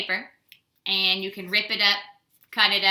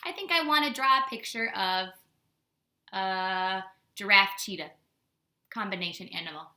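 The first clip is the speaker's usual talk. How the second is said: put-on musing kid voice. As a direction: muse aloud like a kid with a wild idea.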